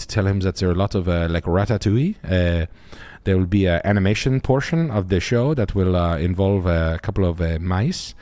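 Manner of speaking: lightly put-on French accent, mock formal; a hint of a sarcastic French guy; French guy bit. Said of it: "me of your French guy bit".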